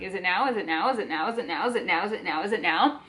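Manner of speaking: low, rapid-fire looping question; obsessive repeated thought. Retold or imitated. Proposal always on her mind, continuous nagging thought. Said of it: "I continuously was thinking".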